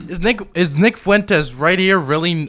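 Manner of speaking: slow, loud disbelief; can't believe what he's seeing; incredulous. Real, not acted. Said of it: "incredulous reaction".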